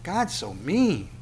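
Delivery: a light impression of someone sulking at God; whiny complaint. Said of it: "How many times have you heard that?".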